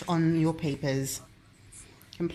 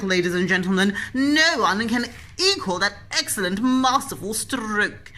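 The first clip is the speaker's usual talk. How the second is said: gallery commentator. Pretend. Mock art commentary on child painting.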